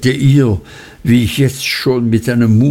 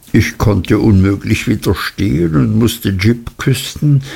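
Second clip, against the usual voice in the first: ordinary delivery, nothing marked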